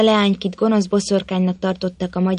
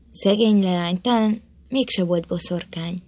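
moved. Acted. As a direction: say it gently, touched by her death. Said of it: "mondta megilletődve Botond".

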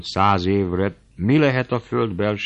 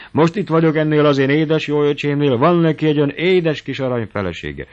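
higher and louder, sweet-talking; sugary old aunt; 7 semitones higher, 6 dB louder than usual. Acted. Old aunt praising her nephew's wife, sugary. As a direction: lay the sweetness on thick. Kati talks sweetly about hosts.

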